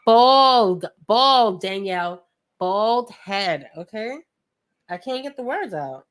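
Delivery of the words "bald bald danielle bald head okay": Bald said loud in a New York accent. Real, not acted. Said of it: "My New York accent".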